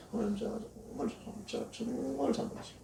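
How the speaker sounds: high, soft, pleading confession; a hushed, high-pitched plea to God; contrite plea. Acted. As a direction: beg forgiveness in a small, high voice. Sinner's prayer of repentance.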